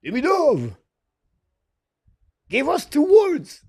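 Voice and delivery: mock reporter call. Imitating a reporter calling to Demidov at the airport, hammed up. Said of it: "when someone said".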